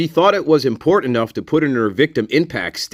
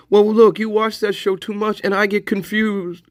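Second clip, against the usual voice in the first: high put-on voice of a scolding frontier dad; hammed-up folksy character; 10 semitones higher than usual. Mock TV dad scolding him about the Valium, high put-on voice. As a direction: lecture him like a corny TV father, pitched up. Same character answering back.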